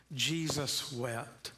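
each word drawn out slowly and weightily; slow solemn reading. Shown as a demonstration. Pastor reading the shortest verse for the congregation to repeat, slow and solemn. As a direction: let the verse land, slow and grave. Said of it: "Say it".

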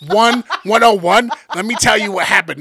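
loud, mocking know-it-all recap. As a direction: imitate her droning on about episodes. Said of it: "She was like".

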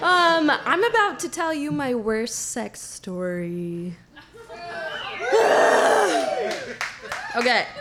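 tipsy and giggly; a little tipsy, laughing. Real, not acted. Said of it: "Good thing I'm a little tipsy".

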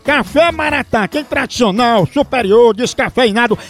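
upbeat radio ad pitch; radio ad read. Acted. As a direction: sell the coffee brightly. Reads live coffee ad.

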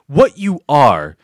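ordinary talk, nothing marked

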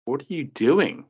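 high, mock-puzzled question; baffled quote. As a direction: act out the confusion. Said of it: "I just go like".

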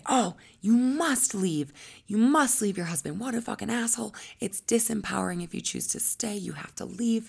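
loud, high, insistent advice; pushy friends. Retold or imitated. Friends urging a client to leave her husband, loud and insistent. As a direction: push her hard to leave him.

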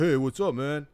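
hint of a try-hard bro; nerd sounding like jock. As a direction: imitate a nerd copying a jock. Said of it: "a nerdy guy goes, like, up to".

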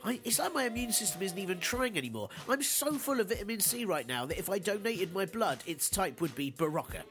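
stuffed-up head cold voice; blocked nose. Real, not acted. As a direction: speak through a blocked nose. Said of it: "apologies for sounding all stuffed up again".

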